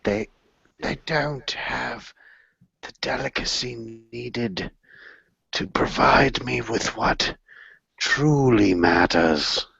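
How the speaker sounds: slow, hushed, mock-grave whisper; hushed solemn confession. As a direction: lean in and murmur it like a sacred truth. Mock-solemn speech on the heart.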